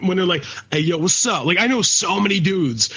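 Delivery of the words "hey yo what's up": lightly imitated Black American street accent; mock a put-on Black American greeting; casual parody of a Black American accent. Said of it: "people that sound like that".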